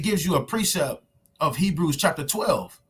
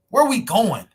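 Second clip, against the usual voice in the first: loud preaching cry; 6 semitones higher, 7 dB louder than usual. Real, not acted. Preaching with full force.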